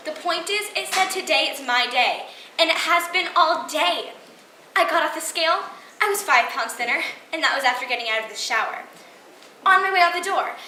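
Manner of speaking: excited gushing. Acted. Monologue about her lucky day.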